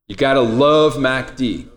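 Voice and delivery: lightly voiced deep soul crooner; a hint of a soul-singer croon; a soul singer. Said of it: "Tell me I sound like a soul singer".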